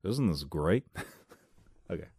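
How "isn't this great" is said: movie quote. Acted.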